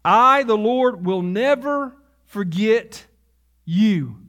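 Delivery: slow, weighty divine pronouncement; voice of the Lord. Acted. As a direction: speak as the Lord, deliberate. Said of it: "Here's the Lord through the prophet Isaiah".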